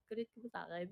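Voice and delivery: low, soft question; timid question. Retold or imitated. Asking if she is mad at me, timid and soft. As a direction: ask it low and under the voice. First take of retold question.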